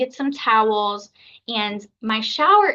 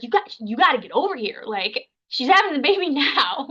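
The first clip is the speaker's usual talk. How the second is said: hurried mock-urgent phone plea, laughing; retold urgency; 4 semitones higher than usual. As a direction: imitate a doula rushing the midwife over. Doula's urgent call to midwife, retold.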